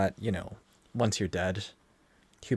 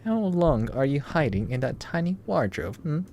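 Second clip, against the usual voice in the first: higher, louder mock Russian accent; 6 semitones higher, 3 dB louder than usual. Player voicing the Russian captor taunting in a Russian accent. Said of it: "That accent? Eastern European?".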